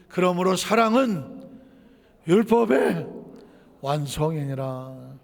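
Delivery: slow, weighty scripture reading; preacher sealing the sermon point, slow and solemn; solemn slow close. Acted. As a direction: land the verse slowly, word by word. Preacher's solemn closing scripture line.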